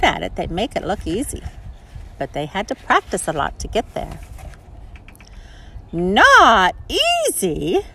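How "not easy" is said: slow, drawn-out froggy question; croaking frog. Acted. Frog answering Sally Jane's sigh about skating. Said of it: "croaked the frog".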